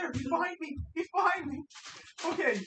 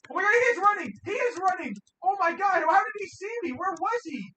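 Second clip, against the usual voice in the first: panicked shouting, pitched up; yelling in real alarm; panicking gamer; 8 semitones higher, 7 dB louder than usual. Real, not acted. Monster suddenly chasing him.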